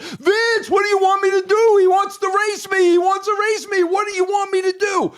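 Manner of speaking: put-on high, fast French-accented protest; imitating a French driver defending the race. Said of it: "And in that French accent".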